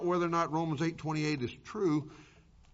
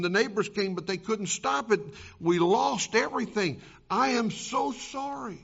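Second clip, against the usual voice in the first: frantic and crying; 3 semitones higher than usual. Acted. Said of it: "frantic and crying".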